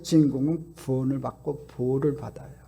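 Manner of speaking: hushed whisper after the big shout. Real, not acted. Preacher telling the congregation the hero is saved, in a whisper. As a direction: drop to a secret whisper.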